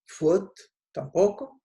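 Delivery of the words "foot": "foot" con u larga, a la inglesa; English foot. Shown as a demonstration. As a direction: di "foot" como en inglés. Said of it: "no se dice". (pronunciación inglesa de "foot")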